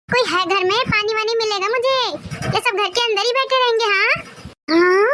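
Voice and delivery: thirsty grandma calling into the house; grandmother voice. Acted.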